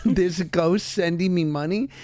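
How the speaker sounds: retelling the son's words through laughter; laughing quote. Retold or imitated. Mother quoting her son's confusion, laughing. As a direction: laugh while quoting the boy. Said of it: "he's like".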